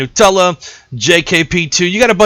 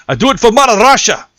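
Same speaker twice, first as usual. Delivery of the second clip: higher, quick mock Russian accent; hammed-up Russian patriot; 5 semitones higher, faster than usual. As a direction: proclaim it in a put-on Russian accent. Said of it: "Pretty good imitation of a Russian accent".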